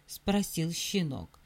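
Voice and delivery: plain reading voice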